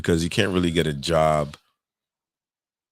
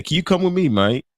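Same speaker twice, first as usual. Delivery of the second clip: high-pitched mock London accent; 11 semitones higher, 4 dB louder than usual. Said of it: "make that London accent".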